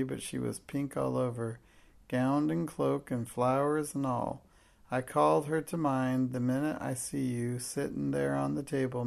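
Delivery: odd Cockney voice. Acted. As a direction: tell it with awed Cockney wonder. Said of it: "said in an odd voice".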